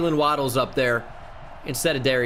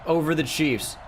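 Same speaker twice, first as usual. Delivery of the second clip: higher, slowed, triumphant announcer call; excited game call; 5 semitones higher, slower than usual. Real, not acted. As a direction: call the winning moment like a broadcaster. Calling the Super Bowl win.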